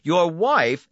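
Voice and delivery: a smooth salesman pleased with himself; brisk, confident host welcoming a client; Donati's voice. A narrator's reading. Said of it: "Donati recites the file".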